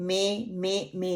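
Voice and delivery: में with open E in place of MI; spread vowel. Shown as a demonstration. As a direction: widen MI into में. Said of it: "नहीं है".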